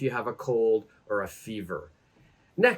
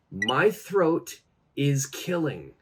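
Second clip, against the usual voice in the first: slow and deliberate; slow model phrase; slower than usual. Shown as a demonstration. Teacher saying the phrase slowly for learners. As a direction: say it slowly so students follow. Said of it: "we could say".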